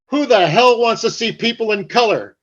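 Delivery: mock the old man's scorn; father scoffing. Father scoffing at color TV to his son, imitated. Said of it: "My father was like".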